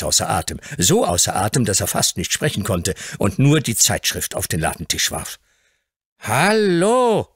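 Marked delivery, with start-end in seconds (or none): 6.2-7.3 higher, surprised "Hallo"; astonished call. Acted. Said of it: "rief Mister Hobbs erstaunt".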